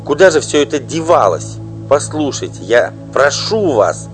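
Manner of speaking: loud, high desperate begging; pleading wife. Acted. Wife imploring the singer, desperate loud pleading. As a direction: beg her with all her strength.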